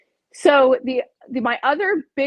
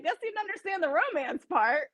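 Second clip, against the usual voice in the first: laughing; 7 semitones higher, 5 dB quieter than usual. Retold or imitated. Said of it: "I'm like".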